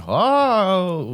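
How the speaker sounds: put-on high, drawn-out Texan accent; mock Texan accent. Imitating Texans to friends, mock Texan accent. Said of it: "They have a different accent".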